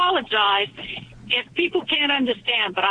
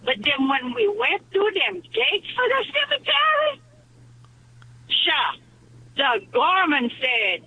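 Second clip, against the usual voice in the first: put-on a light Cajun accent throughout. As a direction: tell it in a gentle Cajun accent. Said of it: "do this joke with a thick Cajun accent".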